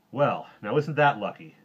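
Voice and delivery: loud, pleased hero; cheerful, projected delight; with a smile. A narrator's reading. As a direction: say it through a smile. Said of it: "said the Super Duper with a smile".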